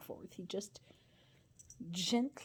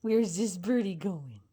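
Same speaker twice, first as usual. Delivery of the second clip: 'birdie' said louder; louder, playful 'Where's this birdie going?' to the bird; louder playful question; 5 dB louder than usual. Real, not acted. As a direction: ask it again with more push. Asking again, louder.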